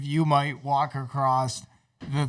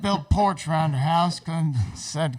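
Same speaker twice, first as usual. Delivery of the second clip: put-on Southern accent. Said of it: "he's even talks like".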